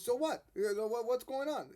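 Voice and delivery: high, sharp, disbelieving protest; a mother who can't believe what she hears; indignant mother. Retold or imitated. Hannah demanding to know why her son must die, high and indignant.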